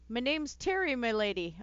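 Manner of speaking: lightly attempted accent for Terry; hint of a put-on rustic accent; attempted character accent. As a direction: try on a game character's accent, politely addressing a lady. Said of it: "I'm not gonna try to do his freaking accent".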